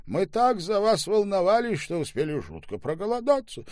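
high, loud mock-worried quip; playful joke. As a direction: build up fake worry then joke. Staube jokes at table. (шутливо, высоко и громко)

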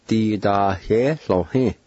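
"Di da he lo he" in even, joined syllables; "Di da he lo he" measured out as one word; careful pronunciation demo. Shown as a demonstration. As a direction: model "Di da he lo he" for learners. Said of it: "I'll pronounce these words one more time".

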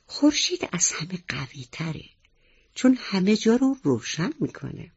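whispered thought; to himself. Acted. Little mouse whispers his idea to himself. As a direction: whisper it to yourself, then brighten. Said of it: "با خودش گفت".

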